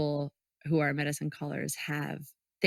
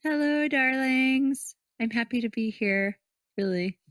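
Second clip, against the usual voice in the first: breathy vintage purr; 7 semitones higher, 4 dB louder than usual. Pretend. Guest greets listeners theatrically.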